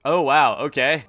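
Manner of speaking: loud shocked gasp of wow; surprised. Real, not acted. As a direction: react stunned to the hanging. Reacting to hanging.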